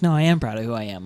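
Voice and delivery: lightly voiced country accent, pitched low. She goes back to her roots, country accent. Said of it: "like, country accent".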